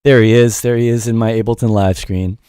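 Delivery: ordinary delivery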